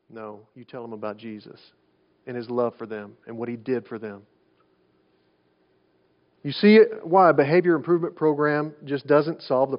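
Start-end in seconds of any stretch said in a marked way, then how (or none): 0.1-4.2 soft, low and tender; gentle, tender. Real, not acted. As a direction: drop to a hushed, caring tone. Gentle counsel for a deathbed visit.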